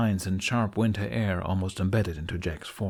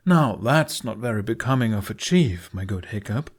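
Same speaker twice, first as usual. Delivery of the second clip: put-on posh accent; 4 dB louder than usual. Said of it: "posh accent fully in place".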